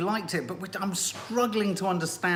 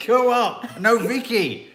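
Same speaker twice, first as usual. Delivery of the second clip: bossy calling out, louder; mock commands; 4 semitones higher, 4 dB louder, much slower than usual. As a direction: order someone about, half-mock. Acting out the director's orders.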